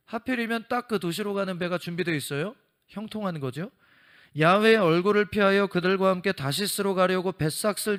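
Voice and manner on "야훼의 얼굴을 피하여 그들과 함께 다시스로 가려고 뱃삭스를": louder proclaiming Bible reading; loud scripture reading. Acted. Preacher reading Jonah to the congregation, loud proclamation. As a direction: read the verse out to the whole congregation.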